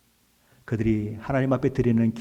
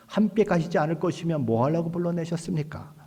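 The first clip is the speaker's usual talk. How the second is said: mild acted protest, pitched higher; 따지는 challenge; 5 semitones higher than usual. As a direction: question God like an aggrieved Moses. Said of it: "따져요". (따져 묻는 말투)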